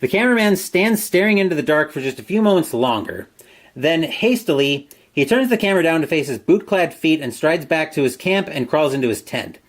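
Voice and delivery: measured storyteller read; story narration. A narrator's reading. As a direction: narrate the eerie scene line by line. Reads gamebook story aloud.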